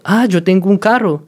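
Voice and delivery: showing Spanish intonation, "Ah" stressed. Shown as a demonstration. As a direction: start on "Ah" then fall. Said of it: "es más como".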